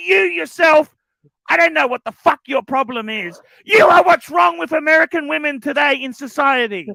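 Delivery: furious yelling. Acted. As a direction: explode at her over the watch, cursing. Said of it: "Is he yelling at me still?".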